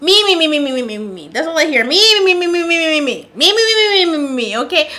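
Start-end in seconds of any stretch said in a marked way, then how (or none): 0.0-1.3 sing-song mocking chant of me; mock his self-absorption. Mocking self-centred talk. 1.8-4.6 sing-song mocking chant of me; mock his self-absorption. Mocking self-centred talk.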